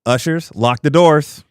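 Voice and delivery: loud, hammy church call; preacher voice. Acted. Mock preacher calling to ushers.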